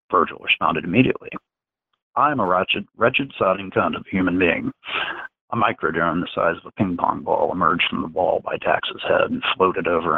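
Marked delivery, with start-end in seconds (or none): 2.2-4.7 lightly voiced young man, repeating mechanically; Virgil's voice. Virgil repeating the insult under mind control, lightly voiced and obedient. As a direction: near the reader's own voice, echoing the order obediently.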